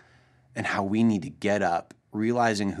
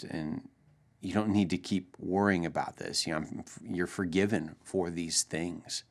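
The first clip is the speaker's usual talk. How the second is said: soft, lowered fatherly voice; gentle reassurance; 3 semitones lower, 6 dB quieter than usual. Retold or imitated. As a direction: reassure a crying child quietly. Father gently forgiving his crying daughter.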